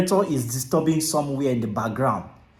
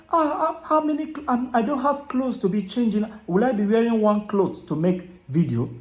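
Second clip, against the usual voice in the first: higher, mock-fretful viewer complaint, easing down; imitating a worried viewer; 5 semitones higher than usual. Mimicking viewers who fret about outfits, mock-worried and higher. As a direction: play the anxious newbie fussing over clothes. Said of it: "A lot of you say".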